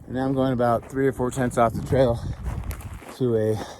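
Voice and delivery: winded, panting between words; gasping for air after the hike; out of breath. Real, not acted. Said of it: "Sorry, I'm out of breath".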